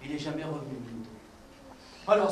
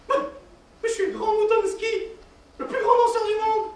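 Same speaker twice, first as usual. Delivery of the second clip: grand dancer; 11 semitones higher, 7 dB louder than usual. Acted. Sheep plays famous dancer.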